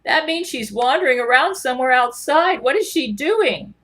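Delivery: a hint of McConaughey, worried; Matthew McConaughey voice. McConaughey fretting that Gale is wandering outside, lightly voiced. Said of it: "Matthew McConaughey".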